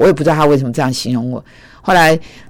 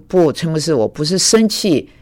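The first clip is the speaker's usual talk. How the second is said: slow protest. Retold or imitated. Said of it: "我说".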